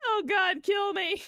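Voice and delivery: real high, laughing squeal; helpless laughter. Real, not acted. Streamer embarrassed by own twang, helpless laughter.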